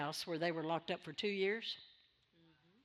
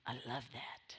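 whisper; 11 semitones lower, 13 dB quieter than usual. Real, not acted.

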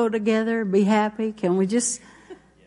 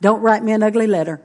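joking aside; 4 dB louder, faster than usual. Real, not acted. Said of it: "joking aside".

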